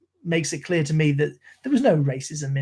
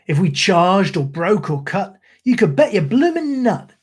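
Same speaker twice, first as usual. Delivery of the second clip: rhythmic ballad recital in a Cockney soldier's voice; poem recitation. Acted. Streamer reciting Gunga Din to his stream, in a rhythmic Cockney recital. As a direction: recite like an old London soldier.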